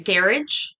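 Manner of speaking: "garage" stressed up front, rising questioningly; alternative pronunciation. Shown as a demonstration. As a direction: try "garage" as "GAIR-idge", unsure. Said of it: "Now I don't know how to say it".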